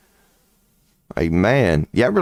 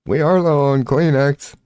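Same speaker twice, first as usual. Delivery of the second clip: mock weepy woman; 7 semitones higher than usual. Mocking a crying woman.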